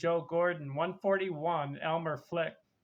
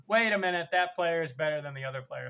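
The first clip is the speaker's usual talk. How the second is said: louder, rushed mock protest from an indignant fan; mock viewer yell; 3 dB louder, much faster than usual. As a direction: blurt it like a fan yelling at the screen. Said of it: "yelling at the screen".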